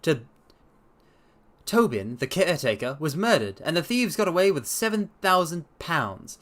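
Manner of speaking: lightly voiced confident sleuth; Holmes voice. Holmes promising to clear up the case, assured.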